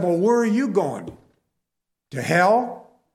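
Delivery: embarrassed, annoyed shout back; retold yell back. Jim yelling back at the coworker, mock angry. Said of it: "yelled back at him 'cause I was embarrassed".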